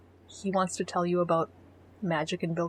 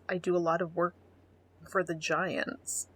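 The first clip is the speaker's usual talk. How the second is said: flat mocking quote. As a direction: drag out for the Giants mockingly. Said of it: "He just says".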